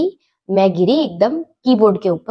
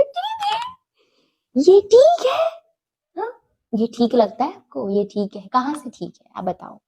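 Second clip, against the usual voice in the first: put-on much higher, wailing indignant child; a crying kid throwing his words back; tearful protest; 6 semitones higher than usual. (रोते हुए बच्चे का विरोध)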